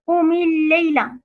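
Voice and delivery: "قم الليلة" with the م of قم taking an i vowel, run into الليلة; linking kasra. Shown as a demonstration. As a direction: join "قم الليلة" as qumi-l-layla. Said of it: "ولكن لالتقاء الساكنين كسرت". («قم الليلة» بكسر ميم قم ووصلها بما بعدها)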